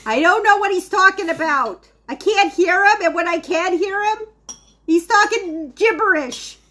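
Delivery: hammed-up fussing about her husband; exasperated old wife. Old wife complaining to daughter on the phone about her husband.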